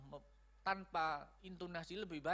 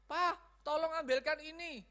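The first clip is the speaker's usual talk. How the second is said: calling out a request; 9 semitones higher, 5 dB louder than usual. Acted. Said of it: "kita mau ngomong".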